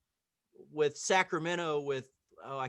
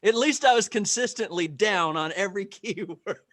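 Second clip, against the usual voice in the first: loud, higher, breaking into laughter; laughing self-mockery; 5 semitones higher, 10 dB louder than usual. Real, not acted. Student admits missing every keyword, laughing loudly. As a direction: laugh loudly at your own slip.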